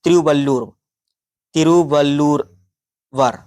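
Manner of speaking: slow, syllable-by-syllable तिरुवल्लूरवर; teacher carefully modelling तिरुवल्लूरवर for repetition; pronunciation model. Shown as a demonstration. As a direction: sound out तिरुवल्लूर, then add a separate वर. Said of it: "इसे आप थोड़ा सा pronunciation कर लें".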